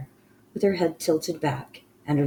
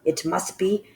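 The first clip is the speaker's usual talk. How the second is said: a lightly voiced cold ruler giving orders; commanding witch queen; 4 semitones higher, 6 dB louder than usual. Grand High Witch orders the child destroyed, menacing and loud.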